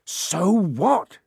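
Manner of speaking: high, defiant half-shout. A narrator's reading. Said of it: "Harry shouted".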